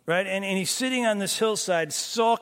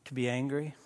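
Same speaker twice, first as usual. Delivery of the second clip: God's gentle question; 3 semitones lower than usual. Acted. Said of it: "He says".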